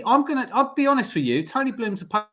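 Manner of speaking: frozen call cutting out; words breaking up on a bad connection; laggy video call. Real, not acted. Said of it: "you froze there".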